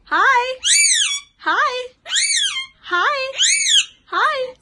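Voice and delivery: loud high sing-song hi; high-pitched coaxing hi. Real, not acted. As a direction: call hi up high to the bird. Coaching parrot to say hi.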